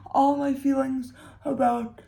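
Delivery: talking through a yawn. Real, not acted. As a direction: stretch the words out mid-yawn. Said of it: "sorry, I just yawned".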